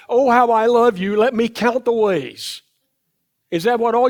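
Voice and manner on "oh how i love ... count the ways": higher, hammed-up romantic gushing; mock love song. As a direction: gush it loudly, as if mocking a morning serenade. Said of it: "start singing a song that sounds something like".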